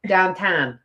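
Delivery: Pittsburgh-style "Downtown", vowels flattened to "dahntahn"; lightly mimicked Western Pennsylvania accent. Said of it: "So she says things like".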